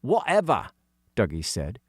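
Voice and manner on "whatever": put-on dismissive child's whatever; annoyed kid waving it away; emphatic whatever. A narrator's reading. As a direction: brush it off firmly.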